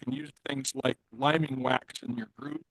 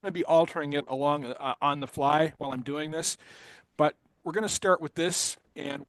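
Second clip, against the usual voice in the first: choppy glitching internet call; breaking up audio. Real, not acted. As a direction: voice cutting in and out. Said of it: "Your audio is breaking up".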